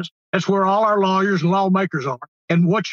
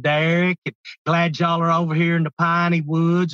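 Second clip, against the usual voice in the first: East Texas drawl. Shown as a demonstration. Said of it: "all the diphthongs start get pulling out a lot farther".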